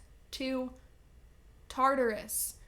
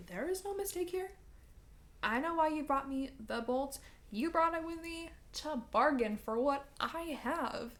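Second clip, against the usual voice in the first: smug Hades; 4 semitones higher than usual. Retold or imitated. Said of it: "Hades is like".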